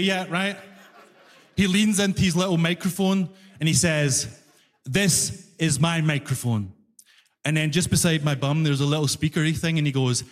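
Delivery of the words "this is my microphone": low, slow, condescending clerk; patronising explanation. Retold or imitated. Fare collector explains his microphone to passenger, patronising. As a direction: spell it out slowly, as to a simpleton.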